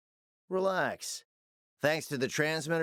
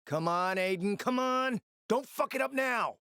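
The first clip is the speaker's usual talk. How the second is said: urgent pleading; 9 semitones higher than usual. Acted. Handler urging Aiden through the radio, high and urgent. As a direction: pitch climbing high as she urges him on.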